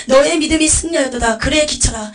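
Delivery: elated, booming proclamation, easing at the end; joyful divine voice. Retold or imitated. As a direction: declare delight as Jesus to a beloved servant. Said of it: "너무나 기쁜 음성으로".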